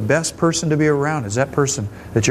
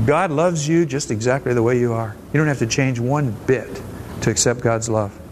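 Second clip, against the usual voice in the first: gentle reassurance; 4 semitones lower than usual. Real, not acted. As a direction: ease their shame with a gentle promise. Reassuring the troubled congregation.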